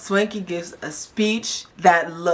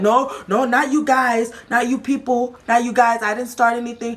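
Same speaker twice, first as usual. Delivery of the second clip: defensive denial; 5 semitones higher than usual. Retold or imitated. Acting out Kaylee's defensive denial.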